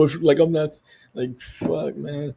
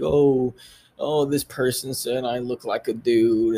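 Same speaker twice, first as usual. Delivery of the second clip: whiny mimic. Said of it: "that's how they sound to me".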